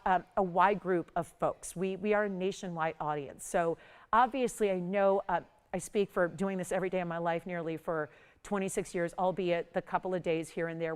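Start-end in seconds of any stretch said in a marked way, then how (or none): 1.7-10.9 hoarse, worn-out voice from a cold. Real, not acted. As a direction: speak through a sick, hoarse throat. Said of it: "where I do lose my voice".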